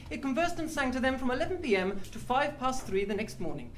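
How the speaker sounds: put-on lightly posh old wireless voice; posh 1930s radio announcer. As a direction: read it like a 1930s radio broadcaster. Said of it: "posh nineteen thirties radio man".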